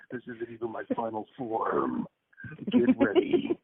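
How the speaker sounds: lightly voiced trailer announcer; a hint of the movie-trailer narrator; announcer intoning a big line; movie guy voice. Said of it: "it's my movie guy voice".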